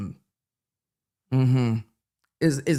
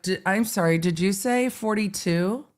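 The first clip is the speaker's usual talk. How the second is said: mock disbelief; 2 semitones higher than usual. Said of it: "the jury just went".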